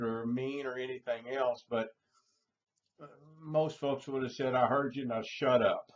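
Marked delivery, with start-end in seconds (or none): 4.6-5.9 blunt retort. Retold or imitated. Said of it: "You voiced it".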